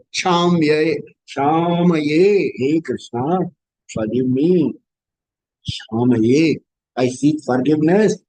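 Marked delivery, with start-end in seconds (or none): 0.1-6.6 humble plea. Acted. Devotee pleading to Krishna.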